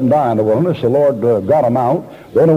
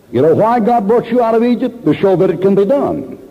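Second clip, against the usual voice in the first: preaching climax; 6 semitones higher than usual. Real, not acted. Sermon climax.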